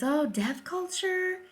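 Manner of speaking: lightly mocking, high dismissive voice; mocking the audiologist. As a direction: lightly mimic a dismissive expert. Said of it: "she offers".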